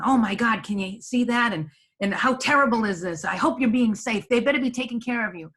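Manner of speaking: hammed-up anxious concern as a demonstration; stressed voice. Shown as a demonstration. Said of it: "could you hear the stress in my voice".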